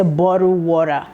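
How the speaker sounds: American-style "bottle water", tongue-tap the t; American accent. Shown as a demonstration. Teaching a child online, demonstrating American "bottle water". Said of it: "That's an American accent".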